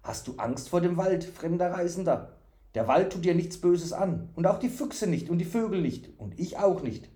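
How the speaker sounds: high, innocent storybook figure; artless, reassuring fool. Acted. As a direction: reassure with childlike simplicity.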